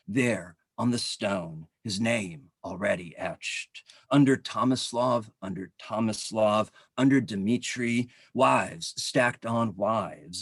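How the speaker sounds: deliberate literary recital with weighted phrase openings; poetry reading. Acted. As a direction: recite the poem in measured phrases, letting each line fall away. Reads second poem aloud.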